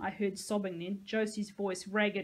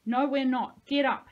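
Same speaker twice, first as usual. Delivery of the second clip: loud, firm and higher; through gritted teeth; 4 semitones higher, 8 dB louder than usual. A narrator's reading. Nico orders Sahalia up, through gritted teeth. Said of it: "said through gritted teeth".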